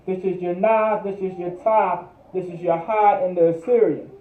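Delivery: Na, Ta, Ha spelled out one by one; syllable by syllable. Shown as a demonstration. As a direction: break "Na" "Ta" "Ha" into separate beats.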